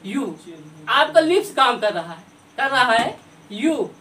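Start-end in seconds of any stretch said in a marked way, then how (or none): 0.0-0.4 rounded, slightly low "यू"; sounding u. Shown as a demonstration. Teacher demonstrating lip sound for students. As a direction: push "यू" out through rounded lips. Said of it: "अब बोलिए यू".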